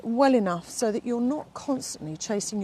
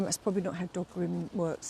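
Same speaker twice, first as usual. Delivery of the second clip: ordinary talk, nothing marked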